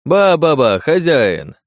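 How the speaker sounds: high, loud exclamation to the host; crying out. A narrator's reading. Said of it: "закричал подьячий". (громкий высокий возглас)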